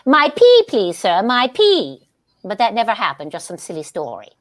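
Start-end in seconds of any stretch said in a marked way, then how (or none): 0.1-2.0 a touch of a prim grand lady; indignant lady. Retold or imitated. Star retelling her own key mix-up with mild indignation. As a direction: insist on it primly. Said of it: "you said rather indignant".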